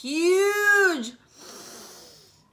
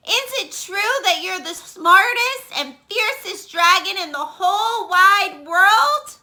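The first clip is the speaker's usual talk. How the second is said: put-on higher, sweet flattering girl voice; butter him up, wide-eyed; flattering princess; 8 semitones higher, 4 dB louder than usual. Elizabeth voiced in story.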